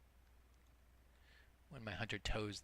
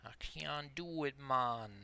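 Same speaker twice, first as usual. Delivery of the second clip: put-on a weak, half-hearted stab at a Jamaican accent, pitched up; bad Jamaican accent; 5 semitones higher, slower than usual. Streamer jokes she can't keep up, in a bad Jamaican accent. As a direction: toss it off in a mock Jamaican lilt. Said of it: "That's my Jamaican accent".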